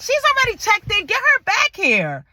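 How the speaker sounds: high, insistent command; imitating an exasperated doctor taking charge; urgent doctor's order. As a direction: order staff to hurry, acted out. Acts doctor ordering her brought back.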